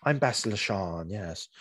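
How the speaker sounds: very posh British lady introducing herself; lightly mocking, very posh British voice; posh British accent. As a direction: put on a cut-glass British accent. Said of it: "the very posh British accent".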